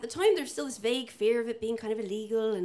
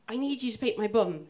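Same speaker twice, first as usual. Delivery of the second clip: repeated through laughter. Retold or imitated. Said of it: "I'm sorry, what?".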